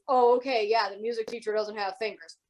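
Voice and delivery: lightly dismissive mock agreement; disbelieving. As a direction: humour the kids without believing a word. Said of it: "Did not believe her kids".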